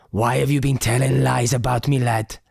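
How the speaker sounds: slow put-on accusing voice; imitating Tommy. Tommy confronting Simon on the phone, slow imitating voice. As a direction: mimic him demanding an answer, drawn out. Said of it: "And he went, like".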